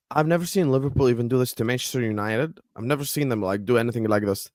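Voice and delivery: mock-quote in a Canadian accent; the speaker's Canadian accent. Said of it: "did you just put an accent on".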